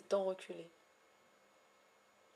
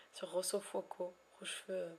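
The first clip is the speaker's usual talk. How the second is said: whisper; 5 dB quieter than usual. Real, not acted. Whispered game title.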